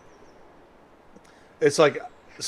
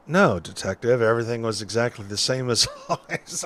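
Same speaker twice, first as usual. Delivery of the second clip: noir detective. Acted. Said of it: "detective noir voice".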